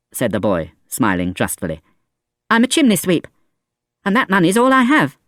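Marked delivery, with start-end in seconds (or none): 2.5-5.2 put-on high child voice, earnest; boy's voice. A narrator's reading. Chimney sweep boy to Valjean, earnest child voice. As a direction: explain like a small honest boy.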